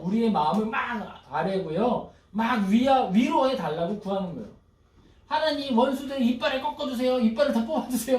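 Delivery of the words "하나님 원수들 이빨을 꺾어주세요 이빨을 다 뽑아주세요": higher, a touch of aggrieved demand; mock plea for revenge, lightly voiced; indignant prayer. Preacher voicing the psalmist begging for enemies' teeth broken, mildly aggrieved. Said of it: "막 이러면서 기도한다고요".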